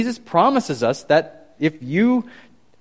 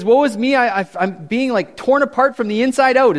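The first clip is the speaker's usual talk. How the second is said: higher and louder mock lament; hammed-up prophet's lament; 8 semitones higher, 5 dB louder than usual. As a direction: play up the prophet's dismay. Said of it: "And he, he says".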